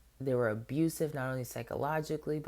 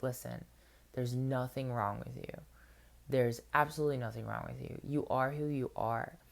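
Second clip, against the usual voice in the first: reassuring parent. Retold or imitated. Comforting his crying inner child.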